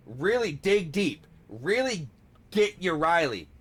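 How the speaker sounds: hyped-up coaching. Pretend. Coaching partner into the impression, hammed-up urging. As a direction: urge them on, pushing the key words.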